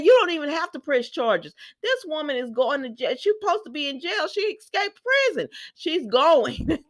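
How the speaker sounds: high, loud worked-up outburst; excited rant. Real, not acted. Host ranting to viewers about Sheila's escape, high and loud. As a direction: get fired up and insist she's going to jail. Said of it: "host ranting at the scene".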